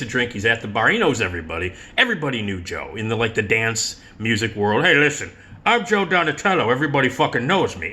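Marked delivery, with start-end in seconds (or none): 4.8-7.9 cocky Joe. Retold or imitated. Imitating Joe's swagger.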